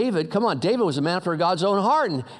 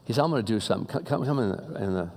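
low, soft, kindly offer; quiet, low-voiced compassion; compassionate rich man; 10 semitones lower, 5 dB quieter than usual. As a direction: speak gently and low, as if to someone down on his luck. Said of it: "had real compassion for this guy".

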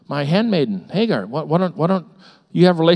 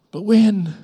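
loud, high, demanding but when; loud question; 6 semitones higher, 4 dB louder than usual. Acted. Pastor voicing impatient believers, loud demanding question. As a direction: throw BUT WHEN out to the room. Preacher's question, then echoed softly.

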